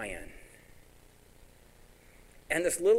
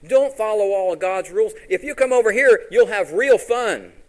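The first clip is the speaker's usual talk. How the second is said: loud, high-pitched devil luring someone in; mock tempter's voice, loud and high; tempting devil; 7 semitones higher, 11 dB louder than usual. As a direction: call out an enticing invitation, pitched way up. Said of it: "He'll come up to you and say".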